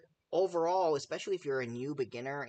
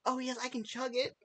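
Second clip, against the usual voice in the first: mock chugger; 9 semitones higher than usual. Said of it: "You just don't go".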